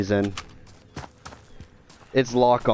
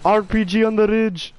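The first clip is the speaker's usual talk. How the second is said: callout shout; 11 semitones higher than usual. Real, not acted. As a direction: shout the warning to the team. Calling out enemy position.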